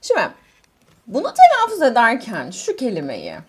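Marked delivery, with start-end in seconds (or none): none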